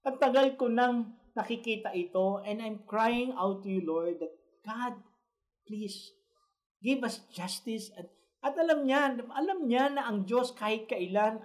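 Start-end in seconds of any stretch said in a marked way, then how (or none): 0.0-8.0 high, pleading plea to God, slowing toward the end; voicing Habakkuk's weary, pleading prayer; pleading prophet. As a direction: cry out to the Lord, begging for justice. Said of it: "sinasabi ni Habakkuk dito".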